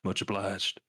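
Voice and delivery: put-on American drawl, a little low; American accent. Shown as a demonstration. Doing American on request for the stream, American accent. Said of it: "in an American accent".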